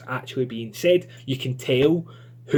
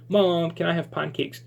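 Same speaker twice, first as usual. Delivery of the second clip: put-on a slightly higher, slow little-girl ask; 6 semitones higher than usual. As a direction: ask sweetly like a small child. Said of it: "we know kind of what little Susie talks like".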